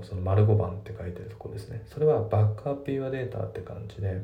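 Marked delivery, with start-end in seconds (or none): 2.3-3.5 "バックアップ" joined as "ba-kup" before your data; "バックアップyour data" with no gap after back; linked. Shown as a demonstration. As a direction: run back and up together in "バックアップ". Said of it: "バックとアップがくっついてますよね".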